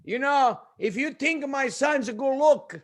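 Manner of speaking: imitating father's slow boast; boastful father. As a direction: brag to the girls as an embarrassing dad.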